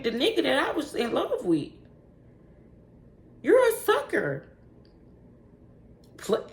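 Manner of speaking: high, emphatic telling-off; scornful berating. Real, not acted. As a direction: hand down the verdict on a pathetic ex. Berating the ex she is embarrassed by.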